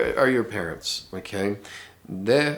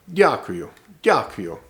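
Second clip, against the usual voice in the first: almost barked; 4 dB louder, slower than usual. Shown as a demonstration. Teacher shows how locals clip Diakuyu, barked. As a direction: snap out Diakuyu quickly like a bark. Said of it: "you'll normally hear it almost bark".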